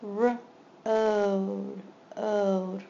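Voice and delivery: segment by segment; sounding out road. Shown as a demonstration. Teacher sounding out a word for students, segmented. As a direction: split road into R and ode. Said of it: "long O".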